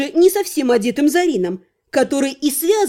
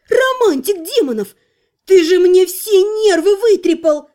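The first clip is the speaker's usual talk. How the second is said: angry scolding; 5 semitones higher, 4 dB louder than usual. Acted. Angry heroine scolds the inquisitor.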